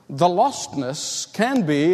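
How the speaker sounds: slow, weighty "can be"; stress on can be. Shown as a demonstration. Preacher warns the congregation, stressing "can be". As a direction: lean hard on "can be". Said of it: "I'm emphasizing the word can be".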